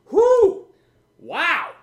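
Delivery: high loud whoop then wow; excited whoop. Real, not acted. Host tastes the strong tea, high loud whoop. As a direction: yell out as the tea kicks in.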